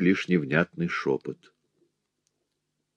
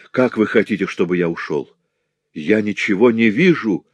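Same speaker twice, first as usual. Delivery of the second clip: in despair; 4 dB louder than usual. Acted. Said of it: "воскликнул он в отчаянии".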